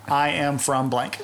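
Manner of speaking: slow, deliberate mock accent attempt; failed accent. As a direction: imitate someone labouring at an accent. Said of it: "accent skills have turned into just saying".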